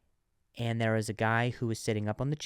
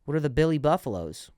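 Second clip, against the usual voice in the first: put-on old man voice; 4 semitones higher, 6 dB louder than usual.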